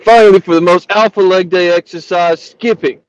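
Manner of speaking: hammed-up New Jersey gym-bro accent; imitating a fake New Jersey accent. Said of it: "In his New Jersey accent, this fake Jersey accent".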